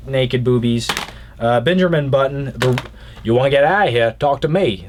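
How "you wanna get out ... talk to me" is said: lightly attempted Australian accent. Movie fan quoting a film, mild Australian accent. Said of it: "That was my Australian accent".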